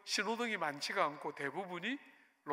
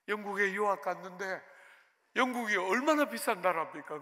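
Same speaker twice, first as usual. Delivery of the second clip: ordinary delivery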